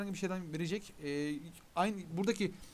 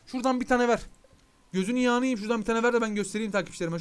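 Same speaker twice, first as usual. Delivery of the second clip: louder, coaxing the game to give one; coaxing plea; 5 dB louder than usual. Real, not acted. Streamer coaxing the game for a drop, louder coaxing. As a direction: sweet-talk the game into dropping it.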